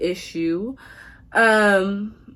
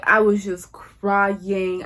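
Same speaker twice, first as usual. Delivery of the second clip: "crying" stretched out long; slow down and drag out "crying" for drama; drawn-out emphasis; much slower than usual. Retold or imitated. Stretches word while retelling breakup.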